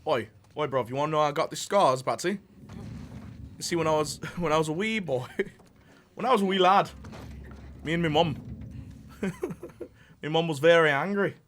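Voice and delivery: hammed-up Scottish-British accent with laughs breaking through; a Joker telling his scar story in a shaky Scottish accent; mock Scottish accent, slowing on the angry mum line. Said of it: "Alfred throwing shade on Scottish Bruce".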